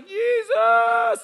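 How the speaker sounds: sudden high loud cry of Jesus; shout. Retold or imitated. Smoothie King manager falling under the counter, high shout. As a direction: cry out as if struck by power.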